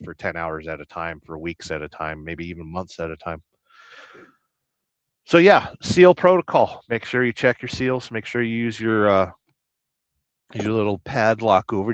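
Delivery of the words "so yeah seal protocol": announcer boom. Acted. Announcing a segment loudly.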